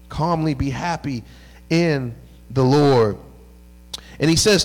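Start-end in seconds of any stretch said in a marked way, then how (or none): 0.1-3.2 slow emphatic repeat. Shown as a demonstration. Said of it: "repeats Paul's words for emphasis".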